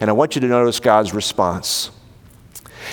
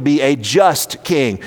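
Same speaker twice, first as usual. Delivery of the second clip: "just" picked out with emphasis; stress on JUST; slower than usual. Real, not acted. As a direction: lean on the word "just". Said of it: "Notice the emphasis on the word just".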